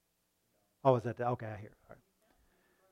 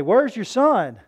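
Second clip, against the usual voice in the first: nosy relative; 7 semitones higher, 9 dB louder, slower than usual. Retold or imitated. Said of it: "and people say".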